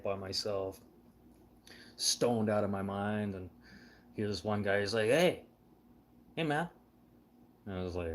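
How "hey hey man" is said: calling out high across the street, mildly imitated; a mock street vendor's hail.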